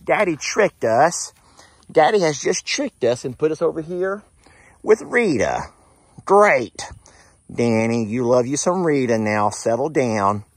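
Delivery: high, loud, slow groaning complaint; voicing Danny dismayed. Owner voicing Danny complaining he was tricked, high loud whine. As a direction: whine that you've been tricked. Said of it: "Danny's like".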